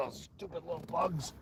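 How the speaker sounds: throat still catching after a bug; muttered through a bug-tickled throat; just swallowed a bug. Real, not acted. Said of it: "Oh, I just swallowed a bug".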